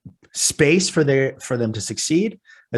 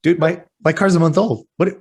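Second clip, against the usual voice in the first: exasperated protest; 7 semitones higher than usual. Retold or imitated. Husband protesting to his wife, climbing indignant disbelief. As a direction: push back harder each line, voice climbing. Arguing with wife over new car.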